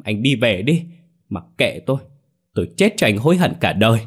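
lightly voiced wronged young lover; bitter reproach, pitch lifting on some phrases; Ngọc trách móc. (giọng oán trách)

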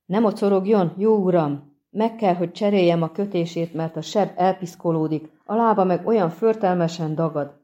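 scolding a stubborn patient kindly; lightly voiced anxious peasant; fussy servant Jurga. Jurga fussing over wounded witcher.

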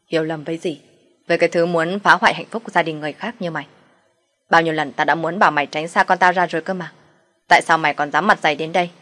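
rising anger, harder with each line; a mother-in-law lashing out at her son's mistress, angrier line by line; furious scolding. Acted. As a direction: let the fury build to the last question.

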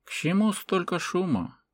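high, unhurried question at normal volume; composed old man, lightly voiced; calm speech. A narrator's reading. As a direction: ask it calmly amid the uproar. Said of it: "спокойная речь".

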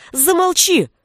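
high shriek, way up; high screaming shout; shrill shriek. A narrator's reading. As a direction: shriek it at him. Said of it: "взвизгнула Веся".

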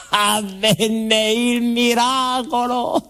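slow and high, marvelling; hushed amazement at a miracle; awed wonder. Acted. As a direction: savour each word like a revelation.

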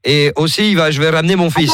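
put-on invented African accent. Prank caller telling Coralie his new wife comes, in a mock Senegalese accent. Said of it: "j'ai inventé un accent".

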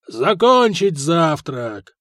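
slow, loud drawn-out bellow; roared command. Acted. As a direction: bellow it like a drill sergeant. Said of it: "заревели дядьки".

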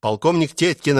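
plain reading voice

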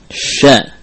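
"sha" with airy spread SH, no whistle; only spreading. Shown as a demonstration. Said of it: "Hanya tersebar aja". ("sha" hanya menyebarkan udara)

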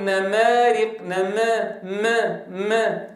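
"نمارق" with the fatha bent toward kasra; wrong imala on the fatha. Shown as a demonstration. تلاوة "نمارق" بإمالة خاطئة للفتحة. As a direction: say "نما" with the a leaning to e. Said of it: "خلط الفتحة بشيء من صوت الكسرة".

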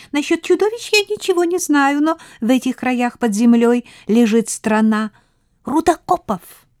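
high, bright queen mouse. A narrator's reading.

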